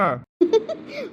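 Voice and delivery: short high giggle; teasing laugh. Acted. Wife laughing at husband's plea, teasing giggle. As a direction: giggle at someone's pitiful act.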